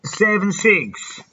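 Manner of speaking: put-on slow Mexican-accented numbers. Prank caller slowly giving a fake number in a Mexican accent. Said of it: "My Mexican accent is all over the place".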